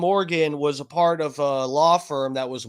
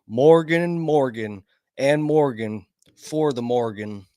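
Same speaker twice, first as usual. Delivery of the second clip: Southern tagline parody; 3 semitones lower than usual. Retold or imitated. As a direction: parody a Southern lawyer's TV sign-off. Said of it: "basically a Southern accent".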